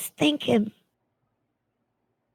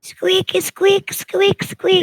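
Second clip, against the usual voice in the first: higher pretend bird calls; bird squeaks; 6 semitones higher, much slower than usual. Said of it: "I'm gonna try".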